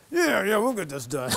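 laughing through the words; amused disbelief at own promise. Real, not acted. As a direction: chuckle while promising. Laughs at his own bluff.

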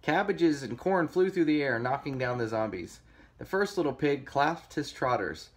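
lively storybook reading; story narration. A narrator's reading. Reader telling kids of pig versus zombies, story narration. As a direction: read it like a picture book.

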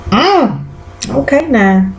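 high, hooting fan reaction; excited woo. Real, not acted. To the viewers, hyped up over Fitz. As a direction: cheer him on like a fan. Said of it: "Y'all, I said".

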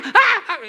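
hammed-up high-pitched ecstatic cry; fake porn moan. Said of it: "El problema de esa gritería". (gemido exagerado de película porno, mucho más agudo)

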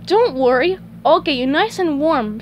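high, reassuring storybook voice; little griddle. Acted. Griddle promising to warm cold patties, high reassurance. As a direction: comfort them in a high character voice.

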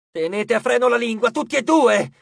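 high, loud alarmed warning; fearful. A narrator's reading. Titan warning both brothers to hold their tongues, fearful. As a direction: hush them urgently at full voice. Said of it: "intrisa di paura".

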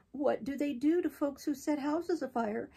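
slow, scared little whisper from hiding; smothered whisper. A narrator's reading. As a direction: whisper it, afraid of the answer. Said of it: "a smothered voice from the recesses of the kennel".

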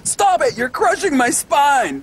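half-hearted imitation of her screaming; retelling her cry, mildly voiced; mild mock scream. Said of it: "she starts screaming".

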